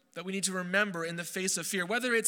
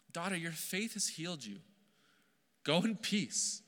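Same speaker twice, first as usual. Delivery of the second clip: soft and tender, a little quieter; gently; 3 semitones lower, 4 dB quieter than usual. Acted. Jesus gently speaks to the trembling healed woman, tender and soft. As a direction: speak it like a kind father kneeling down. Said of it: "says gently".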